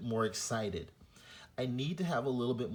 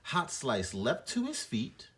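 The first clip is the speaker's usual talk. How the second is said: expressive read-aloud. Shown as a demonstration. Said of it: "continue using the punctuation marks".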